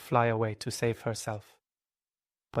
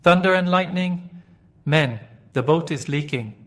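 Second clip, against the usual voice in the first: loud, much higher alarmed yell; shouting in alarm; 6 semitones higher, 6 dB louder than usual. Acted. Pirate captain sees his ship leaking, loud alarmed shout. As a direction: bellow the alarm to the crew. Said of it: "looked down at his feet and shouted".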